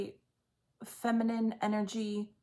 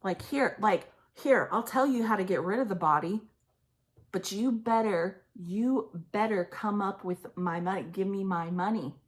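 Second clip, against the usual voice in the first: imitating threatening mother. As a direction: play the mother's rage as she threatens him. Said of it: "the energy is like".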